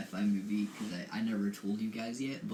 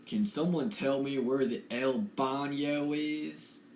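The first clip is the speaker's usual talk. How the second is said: put-on slow southern redneck accent; a clumsy try at a redneck accent; 3 semitones higher, 3 dB louder than usual. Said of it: "It's just a redneck".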